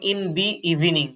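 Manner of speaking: "the" pronounced "dee" before evening. Shown as a demonstration. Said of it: "দাটা দি উচ্চারণ হয়েছে".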